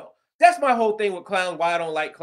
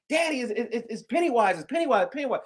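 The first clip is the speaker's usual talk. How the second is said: excited daughter; 4 semitones higher than usual. Retold or imitated. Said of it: "she was just all excited".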